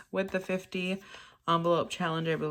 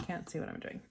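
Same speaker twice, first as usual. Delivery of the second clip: whispered aside; 9 dB quieter, faster than usual. Real, not acted. Muttering to herself off camera.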